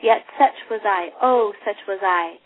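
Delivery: lightly voiced regretful ghost; Marley's ghost. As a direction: grieve over a wasted life. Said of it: "he says".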